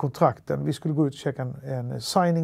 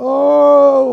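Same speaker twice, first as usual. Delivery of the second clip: a loud, high, drawn-out "Åh!" like a cheer; excited shout; 11 semitones higher, 14 dB louder than usual. Retold or imitated. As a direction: cheer across the restaurant. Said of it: "vinkar och skriker". (ett högt, utdraget glädjerop)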